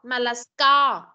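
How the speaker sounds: "scar" slowed with a clear k after s; stressed k sound. Shown as a demonstration. Teacher explaining the letter c, stressed pronunciation. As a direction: lean on the k in "scar". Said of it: "chữ cờ".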